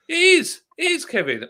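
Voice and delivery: high, loud, hammed-up praise; a playful overblown it is; mock grand insistence. Real, not acted. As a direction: insist like a showman. Insisting loudly, high pitch.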